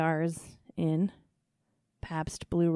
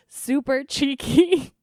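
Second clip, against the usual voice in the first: gushing emphasis; 7 semitones higher, 7 dB louder, slower than usual. Real, not acted. Describing own smile, delighted.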